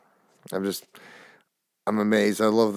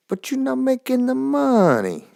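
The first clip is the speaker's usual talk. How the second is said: mock Russian accent; 6 dB louder than usual. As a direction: ham up a Russian accent that sounds Italian. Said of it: "I'm Italian when I mock them".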